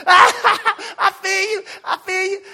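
slow, loud laughing brush-off; chuckling I feel you. Retold or imitated. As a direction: laugh it away like it's a joke. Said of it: "I started laughing".

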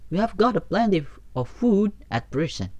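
carefree chirpy grasshopper. A narrator's reading. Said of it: "said the grasshopper".

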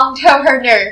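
entrepreneur said the French way, opening on "ong"; French pronunciation. Shown as a demonstration. Co-host showing how a French teacher says it, French accent. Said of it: "ออกเสียงเป็นฝรั่งเศสอะ".

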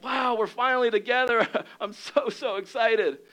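high, giddy reunion joy with a laugh; excited Jesus. Acted. Jesus reuniting with a believer, high and giddy. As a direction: bubble over with happiness, voice lifted. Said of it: "it's like".

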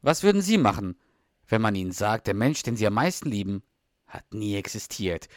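a hint of a dramatic trailer voice, sinking at the end; lightly voiced movie trailer announcer; trailer narrator voice. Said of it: "dann kommt halt diese Stimme". (leichte Trailer-Sprecherstimme)

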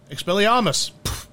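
put-on light British accent on Expelliarmus. To the hosts, listing a favourite spell: light British accent. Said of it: "saying it with the British accent".

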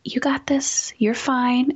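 calm her down gently; soothing whisper. Acted. Comforting the scared little girl Overwhelm, gentle whisper.

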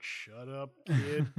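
put-on a sudden loud shut up kid; dad snapping at his kid, mock loud; mock snap at kid. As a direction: bark it at the kid, half joking.

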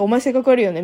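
性格悪いよね said flatly and bluntly, with no cheer; the same insult, bare and unsoftened. Retold or imitated. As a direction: drop the smile and say it as a plain put-down. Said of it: "音声再生ボタン押した途端に".

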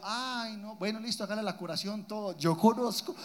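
soft, sweet-threatening mom tone; mom's tonito. Retold or imitated. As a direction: say it softly, all politeness hiding a threat. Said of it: "hay un tonito".

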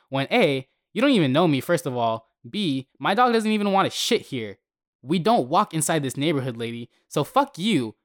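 retold yelling back at the accusing neighbor. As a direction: yell it back so everyone hears. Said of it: "I made sure to yell equally as back".

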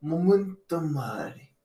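slow, high mock-Latin accent; attempted Latin accent. Shown as a demonstration. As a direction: draw it out in a dubious Latin accent that could pass for Russian. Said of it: "what's a Latin accent sound like".

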